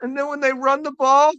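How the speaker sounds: high fretful mock crying voice; hammed-up crying rookie, squeaking at the end; mock whimpering. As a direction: whine it high like a scared rookie. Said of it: "he's bawling".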